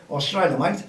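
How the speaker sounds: a light mock Australian accent, mate said like mite. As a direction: toss off a quick half-hearted Australian accent on Australia, mate. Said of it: "Mal, no more Australian accents".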